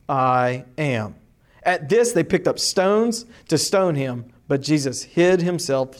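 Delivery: steady, measured Bible reading to a class; teacher reading the Gospel aloud to the class; scripture reading. Acted. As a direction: read the passage clearly for students to follow. Teacher reads scripture passage aloud.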